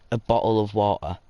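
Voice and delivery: "bottle of water" said the British way, T softened; British pronunciation. Retold or imitated. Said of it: "sounds like a blah".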